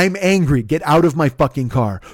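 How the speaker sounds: forceful, irritated order; angry. Retold or imitated. Driver ordering passenger out of the car, angry. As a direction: cut off the argument angrily. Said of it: "why you're angry".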